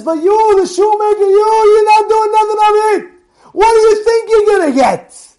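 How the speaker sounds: high, loud scolding rabbi voice; quoting the rabbi. Retold or imitated. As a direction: scold like a stern old rabbi.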